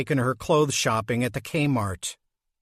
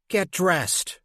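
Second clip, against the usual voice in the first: snarl; 4 semitones higher than usual. Acted. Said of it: "her mother said with a snarl".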